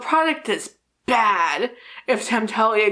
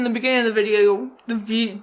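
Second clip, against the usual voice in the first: unintended hint of French accent; accidental French accent; faster than usual. Real, not acted. Tipsy vlogger stumbling over her words, accidental French accent. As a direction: slip into a slight French accent. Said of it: "I just got a French accent".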